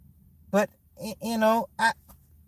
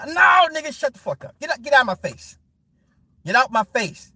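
angry dismissal; 5 semitones higher than usual. Real, not acted. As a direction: brush them off in disgust. Dismissing the follower.

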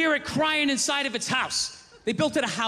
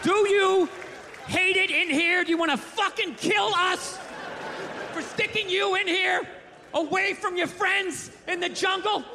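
urgent questioning; 5 semitones higher than usual. Acted. Urgently signing an offer to gorilla.

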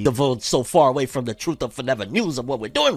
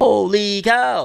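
stunned; 5 semitones higher, 4 dB louder, much slower than usual. Retold or imitated. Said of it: "kinda had me like".

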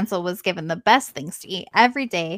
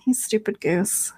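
mock witch insult. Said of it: "Stupid goose, said the old woman".

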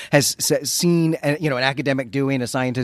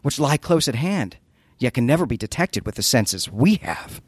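mad scientist monologue; 5 semitones higher than usual. Acted. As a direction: declaim it like a raving genius. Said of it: "solid reading of a Lovecraft mad scientist monologue".

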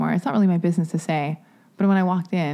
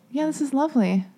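laughing; 6 semitones higher than usual. Real, not acted. Delighted by the story.

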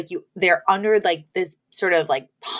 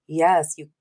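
mock hungry lover; 4 semitones lower, 4 dB quieter, slower than usual. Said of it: "And he's like".

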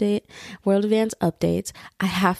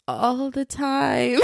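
sheepish confession; 6 semitones higher, much slower than usual. Retold or imitated. Admitting cussing to her mom.

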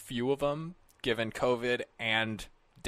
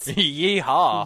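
hammed-up cowboy holler; cowboy yeehaw; 6 dB louder than usual. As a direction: whoop it like a cowboy. Cowboy shit banter.

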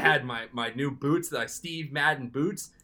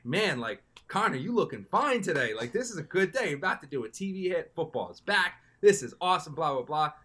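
higher pitched, strutting self-praise; cocky self-hype; 5 semitones higher than usual. Retold or imitated. To himself in the mirror, cocky hype. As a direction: pump yourself up like you own the day.

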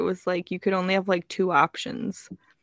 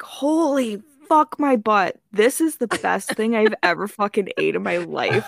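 laughing rave. Retold or imitated. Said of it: "and I was like".

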